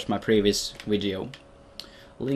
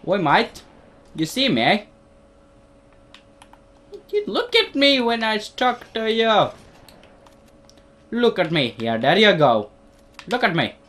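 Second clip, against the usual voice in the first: mock angry yelling; 9 semitones higher, 6 dB louder than usual. Player yelling at game character.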